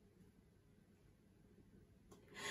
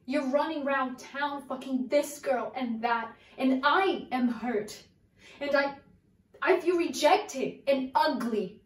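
searching soliloquy. Acted. Actress monologue to Raymond.

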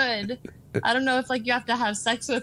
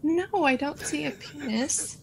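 whispered; 5 semitones higher, 3 dB quieter than usual. Real, not acted. Hushed denial.

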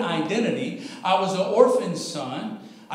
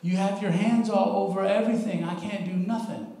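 gentle, softer voice of God; soft and clear; 4 dB quieter than usual. Retold or imitated. Preacher voices God answering him gently, soft and calm. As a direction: say it softly and kindly, no push. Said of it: "as clear and as soft and as nice".

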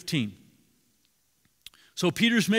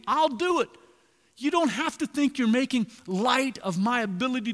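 lightly voiced Jesus, higher and earnest; voicing Jesus; 5 semitones higher than usual. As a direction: speak as Jesus, reassuring and eager. Preacher voices Jesus speaking.

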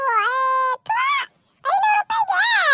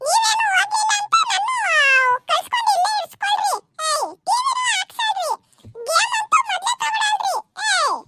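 mock sobbing, half-yelled complaints; crying tantrum; 2 semitones higher than usual. Son crying and shouting at parents who won't allow TV, mock tantrum. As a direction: bawl like a spoiled kid denied TV and games.

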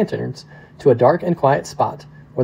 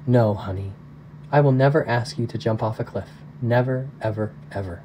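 gently, huskier; 4 dB quieter than usual. Acted. Father promises his frightened daughter, soft husky reassurance. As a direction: hold her close and promise softly, fading away at the end. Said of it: "a little huskier than usual, he gently replied".

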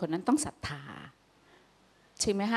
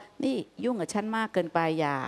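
annoyed retort. Retold or imitated. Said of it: "อีกน้ำเสียงหนึ่ง".

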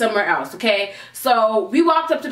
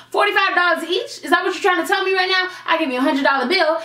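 indignant disbelief; 5 semitones higher than usual. Retold or imitated. Confronting bartender over change.

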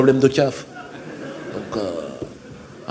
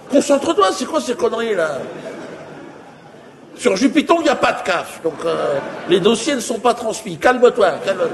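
hurried calming; 6 semitones higher than usual. Retold or imitated. Alien calms the panicking friend.

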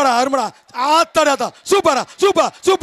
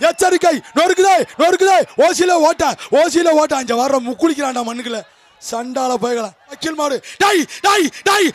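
excited commentary; 2 semitones higher than usual. Real, not acted. Jallikattu commentary, held shouting.

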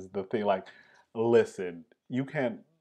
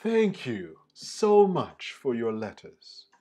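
a hint of Peggy reading her letter aloud; 3 dB louder than usual. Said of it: "try it in my best Peggy voice".

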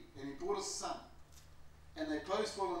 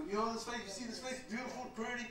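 imitating Ali; 5 semitones higher than usual. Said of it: "This is how he talked to me".

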